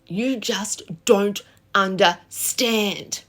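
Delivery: slow, drawn-out hurt complaint; hammed-up wounded wife, dragging the words; dramatic sulky retort. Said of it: "so freaking dramatic and over the top".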